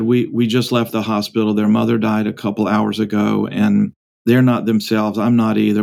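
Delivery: low, subdued retelling of bad news; lightly voiced father, still in a fog; dazed explanation. Bereaved father explaining to the businessman, dazed and low. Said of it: "as if emerging from a fog, and, like, waking up".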